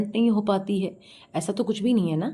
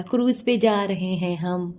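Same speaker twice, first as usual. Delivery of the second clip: mock boast; slower than usual. Mocking her exaggerated cruise boast.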